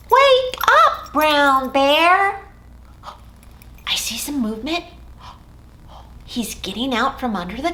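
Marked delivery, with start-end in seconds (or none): 0.1-2.5 loud, high call to wake the bear; mock wake-up shout. Shown as a demonstration. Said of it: "help me call out".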